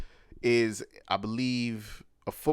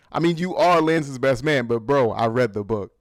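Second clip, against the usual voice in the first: smug taunt; 2 semitones higher, 9 dB louder than usual. Retold or imitated. Mock bro taunt quoting Quentin.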